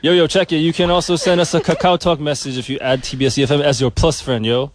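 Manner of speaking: laid-back rapper voice; lightly voiced rapper, yo. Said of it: "Is that your, uh, rapper voice?".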